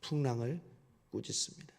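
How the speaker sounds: 풍랑을 꾸짖습니다 repeated softly, fading to near hush. Shown as a demonstration. Preacher repeats the point to the congregation, hushed and soft. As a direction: let 풍랑을 꾸짖습니다 sink down quietly. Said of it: "먼저".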